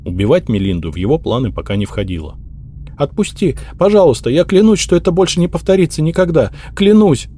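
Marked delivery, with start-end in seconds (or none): 3.0-7.3 high, desperate plea from a choking maid; loud frightened begging, not a whisper; terrified pleading. Acted. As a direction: beg for your life, voice up high. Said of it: "в ужасе прошептала служанка".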